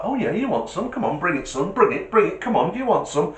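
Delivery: lightly voiced swaggering tough; a hint of a bloke squaring up for a fight; cocky bull. Bull goading the driver to bring it on, lightly swaggering. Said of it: "he started to get the attitude like".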